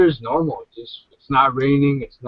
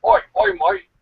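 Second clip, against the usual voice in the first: high call. Acted. Calling out again, much higher.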